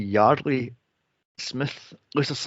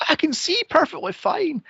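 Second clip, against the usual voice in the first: lightly voiced, much higher; a hint of the dazed father after the accident; mock dazed dad; 13 semitones higher than usual. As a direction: say it like a stunned man insisting he's fine. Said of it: "he comes out of the place going".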